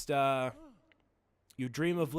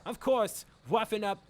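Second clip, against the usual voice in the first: hammed-up would-be Irish accent; put-on henchman accent; 3 semitones higher than usual. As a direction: voice a cartoon crook with an attempted Irish accent. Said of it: "snap in and out of the accent".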